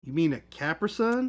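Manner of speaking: mock-baffled question in a put-on accent; put-on Capri Sun accent. Customer correcting someone who offers a drink, put-on accent. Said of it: "an accent when talking about it".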